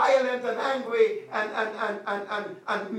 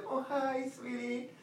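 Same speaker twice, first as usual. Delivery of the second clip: put-on cooing at baby; 3 semitones higher, 8 dB quieter, slower than usual. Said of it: "you wanna come and touch".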